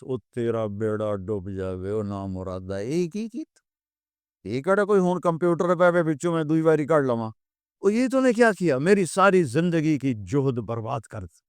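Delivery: Punjabi lament, hammed-up and rising; mock panicked wail. Rumi cries out as his books sink, hammed-up wail. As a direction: wail over the ruined books in jest. Scholar wails over drowned books.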